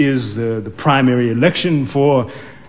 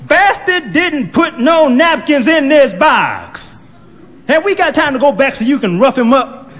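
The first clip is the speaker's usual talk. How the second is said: put-on grumbling old woman; 10 semitones higher, 3 dB louder than usual. Old woman cursing the clerk, high and loud. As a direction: grumble with a laugh.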